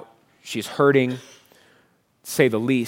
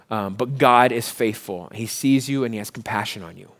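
gentle reassurance; 3 semitones lower, 5 dB quieter than usual. Real, not acted. Pastor consoling grieving listeners, soft and tender. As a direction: ease them gently through their grief.

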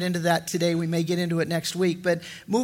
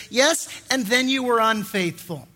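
mock blunt verdict. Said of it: "you would rightly say".

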